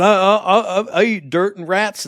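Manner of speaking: loud, high, slow mock whine; hammed-up pitiful impersonation; mocking co-host imitation. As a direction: stammer it out as a hapless player. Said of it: "You went".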